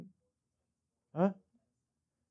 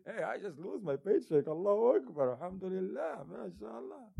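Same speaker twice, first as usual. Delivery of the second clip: mock cheerful; 5 semitones higher than usual. Mock happy loser tweeting.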